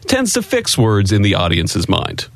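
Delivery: grand, over-inflected textbook reading; old radio announcer read. Acted. Cohost reads the beginners' book in announcer style. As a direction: read it like a vintage broadcasting manual. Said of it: "who used to read radio ads".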